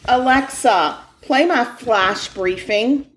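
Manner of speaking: slow, clear command to Alexa. Shown as a demonstration. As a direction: speak clearly to a smart speaker. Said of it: "this is what you do".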